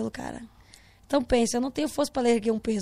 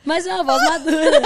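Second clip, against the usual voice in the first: loud, higher, laughing tease; teasing through laughter; 5 semitones higher, 10 dB louder than usual. Real, not acted. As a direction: laugh through the words, raised voice. Teases her about mature voice.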